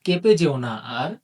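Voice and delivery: slow, measured verse with lilting phrases; rhyme recitation. Acted. Teacher opens the syllable lesson with a rhyme, slow recitation.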